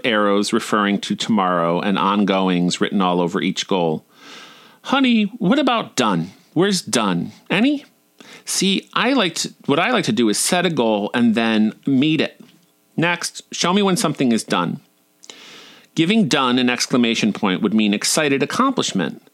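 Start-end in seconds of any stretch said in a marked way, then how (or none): 4.8-7.8 imitated mentor, fondly blunt with high-pitched questions; loving candour. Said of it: "She said it with love and great veracity". 8.4-14.8 imitated southern mentor, fondly frank; southern drawl. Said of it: "also in a southern drawl".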